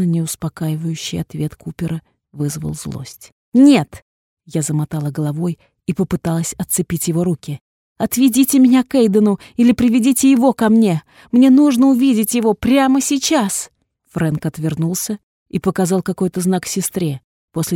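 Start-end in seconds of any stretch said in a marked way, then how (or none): 3.5-4.0 sharp, high shouted no; loud refusal. A narrator's reading. Heroine shouting no at the doctor. 8.0-13.7 high, loud insistent demand; angry demand. A narrator's reading. Heroine demanding the doctor take her to Aiden.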